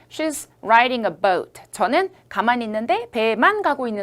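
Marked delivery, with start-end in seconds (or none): 0.1-1.6 She's riding a boat를 천천히 또박또박; slow model reading. Shown as a demonstration. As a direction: spell the sentence out slowly. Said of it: "이럴 때". (천천히 읽어 주는 예문)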